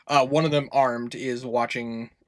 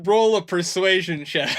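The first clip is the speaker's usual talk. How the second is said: laughing call; 4 semitones higher, 5 dB louder than usual. Real, not acted. GM repeats through laughter.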